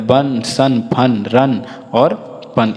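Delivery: बन, सन, फन, रन with an uh vowel, spaced out; short u demo. Shown as a demonstration. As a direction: model बन, सन, फन word by word. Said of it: "इस प्रकार से इसका उच्चारण होता है".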